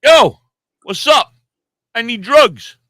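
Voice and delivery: loud, high, brash greeting; loud mock-tough demand; retold loud call-out. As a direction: bark it across the store. Confronting pharmacy staff, retold.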